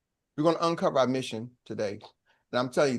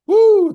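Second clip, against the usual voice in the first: high, loud celebratory woo; cheering whoop; 13 dB louder than usual. Real, not acted. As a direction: whoop like a hype man. Cheering the host.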